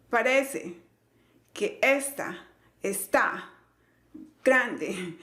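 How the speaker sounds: slow, broken "Parece que esta está grande", punching RE, ES, TÁ, GRAN; exaggerated syllable stress. Teacher showing how nobody really talks, exaggerated stress. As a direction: overdo each accented syllable, pausing between words. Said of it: "y le subo el volumen".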